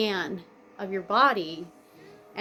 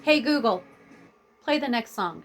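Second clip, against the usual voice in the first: call to speaker; 4 semitones higher, 4 dB louder than usual. Real, not acted. Commanding smart speaker mid-vlog.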